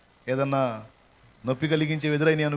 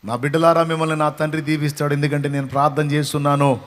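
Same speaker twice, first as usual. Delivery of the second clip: put-on a parent's loud blessing over the children; a parent declaring blessing on the children, loud; 6 dB louder than usual. Shown as a demonstration. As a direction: bless your children aloud with conviction. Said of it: "నీ పిల్లలు వింటుండగా ఈ మాటలు మాట్లాడాలి".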